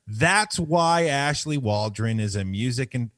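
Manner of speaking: announcer-like statement reading; deliberate, emphatic script read; prepared statement read-out. Acted.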